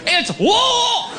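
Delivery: high shouted crowd correction; mocking crowd correction. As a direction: yell it back like an angry crowd. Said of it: "four hundred people like".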